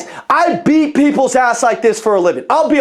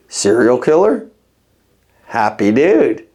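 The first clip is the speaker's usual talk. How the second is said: friendly; 9 semitones lower, slower than usual. Shown as a demonstration. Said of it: "Check this out".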